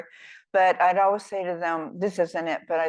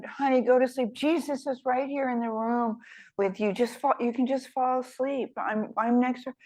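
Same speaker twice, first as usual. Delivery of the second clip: lightly voiced mom, a little higher, coaxing; a hint of a patient mother at bedtime; mother soothing; 5 semitones higher than usual. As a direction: mom repeating her reassurance to the child. Mother soothing child again.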